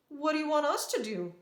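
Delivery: high, lightly voiced child's question; piping up. A narrator's reading. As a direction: pipe up with a puzzled question. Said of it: "Danny piped up first".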